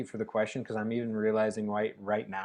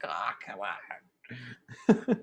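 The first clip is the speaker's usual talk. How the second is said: very slow, drawn-out quiet whine; mock-pouty come on; whiny protest; 4 dB quieter, much slower than usual. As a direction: plead with the body. Whining at her body.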